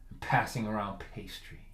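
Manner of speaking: low, soft storytelling; hushed suspense. Acted. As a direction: set the calm scene very quietly. Hushed build-up before the punchline.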